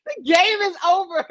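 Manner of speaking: laughing shout. Real, not acted. Insisting over her friend.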